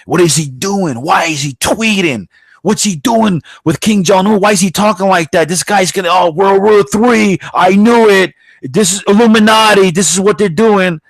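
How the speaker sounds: high-pitched, hammed-up panic; mock alarm. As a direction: imitate a paranoid alarmist working up to a yell. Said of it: "they were so afraid".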